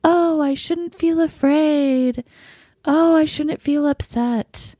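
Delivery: high, slow, self-scolding singsong; mock scolding inner voice. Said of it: "I'm not thinking things like".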